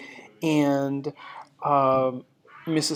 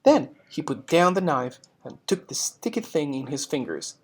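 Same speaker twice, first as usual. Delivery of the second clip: story narration; 4 dB louder than usual. Acted. Reads story narration to class.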